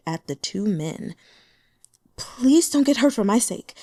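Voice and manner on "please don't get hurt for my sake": high, louder tearful plea; sobbing plea. Acted. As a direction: beg through mock tears, voice lifted. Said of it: "Xu Yanyan sobbed".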